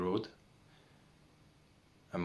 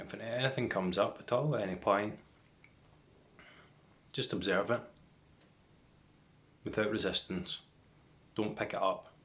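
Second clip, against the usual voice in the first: guided meditation. Real, not acted. Guiding viewers to watch for the next thought, meditation voice. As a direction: lead them into stillness, leaving long silences between phrases.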